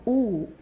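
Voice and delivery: long "oo" with the mouth almost closed; long close vowel. Shown as a demonstration. Teacher demonstrating a close vowel for students, long "oo". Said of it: "include the sound long".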